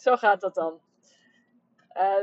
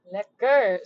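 savoring a sip of coffee; just swallowed coffee, pleased; after sipping coffee; 5 dB louder than usual. Real, not acted. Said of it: "ik neem ondertussen even een slokje koffie".

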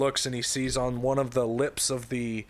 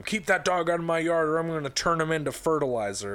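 higher-pitched, hammed-up angry threat; mock yelling neighbour; 5 semitones higher than usual. Fat dad yelling at the dog's owner, mock yell. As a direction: play at yelling over the fence. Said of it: "keeps yelling at him".

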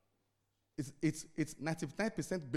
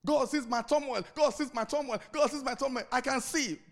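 mock lament; 7 semitones higher, 5 dB louder than usual. Preacher mimics self-pitying believer.

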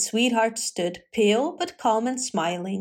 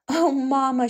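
a bright, slightly louder mock cry of delight; exclaiming; 4 semitones higher, 3 dB louder than usual. A narrator's reading. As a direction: call out to mamma through laughter. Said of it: "she exclaimed".

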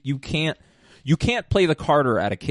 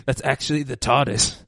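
bad, hammed-up British accent; terrible mock-British accent; 4 dB louder than usual. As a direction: put on a silly British voice. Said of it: "like, a British person".

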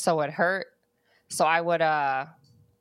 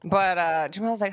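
normal talking voice

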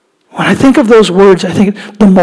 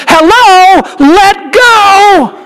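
put-on much higher, strained little girl's voice; choking little girl; 11 semitones higher, much slower than usual. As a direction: squeak it out like a choking child. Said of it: "She said".

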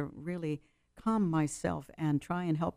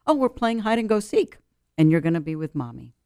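put-on cheerful for child; 2 semitones higher, 6 dB louder than usual. Calming her child in trunk.

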